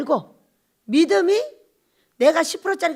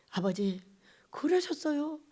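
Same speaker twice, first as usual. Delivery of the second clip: tender; 9 dB quieter than usual. Retold or imitated. Tender reply to grieving Father.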